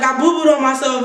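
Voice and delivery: "I boo-booed on myself" with a laugh breaking through; giggling confession. Retold or imitated. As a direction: admit it while giggling. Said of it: "I was like".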